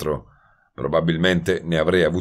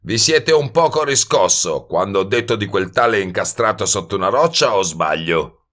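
lightly voiced brash hustler, higher at first; probing wise guy; 3 semitones higher, 3 dB louder than usual. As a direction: needle him, easing down into the final question. (sbruffone che punzecchia e indaga)

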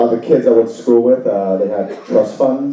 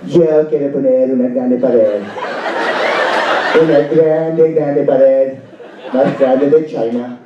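lightly voiced Trump speaking Spanish; a hint of Trump's bluster, in broken Spanish; Donald Trump in Spanish. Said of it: "This is Donald Trump".

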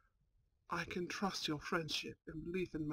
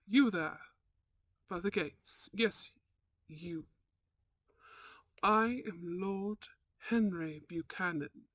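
lordly command. Acted. Lord calling gatekeeper, demanding entry.

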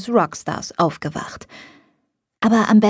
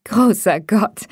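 laughing; 2 semitones higher, slower than usual. A narrator's reading. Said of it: "sagte ich lachend".

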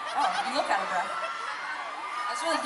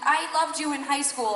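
gushing fan; 6 semitones higher than usual. Retold or imitated. Fan telling the band they loved them in high school, gushing. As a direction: play an excited fan from school days. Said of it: "people will say, like".

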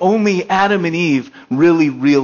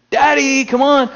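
put-on much higher child's voice; toddler calling; 9 semitones higher than usual. Toddler hiding calls daddy to come find her, high child voice. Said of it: "they start yelling to you".

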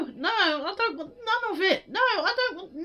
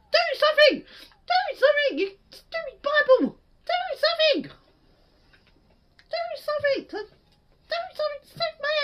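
louder, higher shouts at the useless weapon; frantic yelling; 7 semitones higher, 4 dB louder than usual. Real, not acted. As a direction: bark desperate orders.

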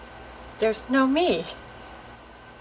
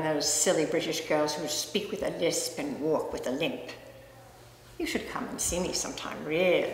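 a hint of a Soho cockney flirt; put-on cockney accent; 2 semitones lower than usual. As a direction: tease him in a mock cockney accent. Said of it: "Who said I had to be a cockney?".

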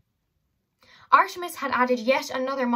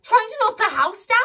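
panting; 12 semitones higher, 7 dB louder than usual. Acted. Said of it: "she panted".

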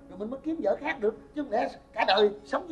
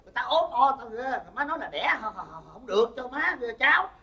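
louder, higher, fed-up complaint; exasperated protest; 4 semitones higher, 5 dB louder than usual. Acted. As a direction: throw your hands up at mom, loud. Son protests mother's rejections.

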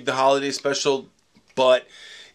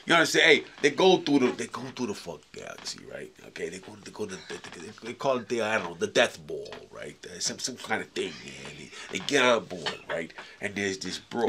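George Lucas impersonation. Retold or imitated. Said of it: "your horrific George Lucas impersonation".

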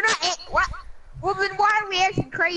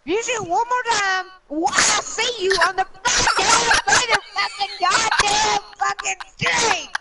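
angry; 5 semitones higher, slower than usual. Real, not acted. Raging at teammate's shooting.

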